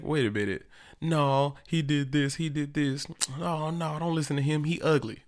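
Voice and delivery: a hint of playground whining; lightly voiced kid. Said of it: "This is stuff kids say".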